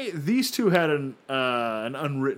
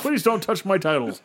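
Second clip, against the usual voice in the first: whiny complaint; 5 semitones higher, 4 dB louder than usual. Retold or imitated. Voicing Angle whining.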